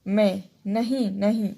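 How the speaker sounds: मैं, नहीं said slowly with nasalized vowels; nasal vowels. Shown as a demonstration. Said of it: "बिंदु लगाया जाता है".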